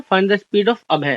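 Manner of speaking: very slow, word-by-word reading of the question. Shown as a demonstration. Teacher reading an exam question to the class, slow and deliberate. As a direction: read it out slowly so students can follow.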